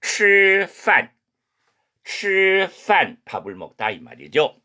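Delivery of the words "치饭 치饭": 치饭 drawn out very slowly, curled tongue; 吃饭 慢速示范; Chinese chifan. Shown as a demonstration. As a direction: slowly model 치饭 for repetition. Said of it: "동사부터 합니다".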